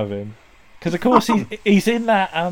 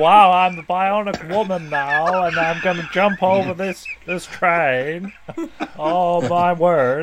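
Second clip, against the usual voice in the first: imitated, put-on New Orleans accent; 4 dB quieter than usual. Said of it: "I think it was a New Orleans accent".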